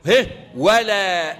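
measured, melodic tajweed recitation; Quran recitation. Shown as a demonstration. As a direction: recite the verse with tajweed flow. Teacher recites Quran verse.

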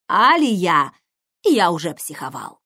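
loud, angry growl at his sister; growling at her. Acted. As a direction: snap at her, barely holding back. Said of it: "Не рычи на беременную женщину". (рычит на сестру, громко и зло)

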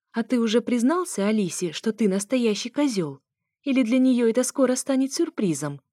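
scornful, needling retort; snorting scorn. Acted. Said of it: "фыркнула я".

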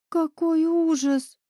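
high, slow breathy mock gasp of horror; a hint of a shocked whisper. A narrator's reading. Deya sees wounded Raven, horrified gasp. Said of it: "прошептала Дея".

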